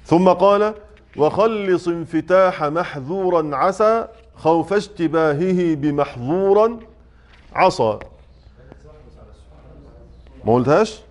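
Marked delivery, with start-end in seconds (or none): 1.2-8.0 slow, measured chanting of the verse; verse recitation. Shown as a demonstration. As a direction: recite the poem line slowly and evenly. Reciting a verse of the tajwid poem.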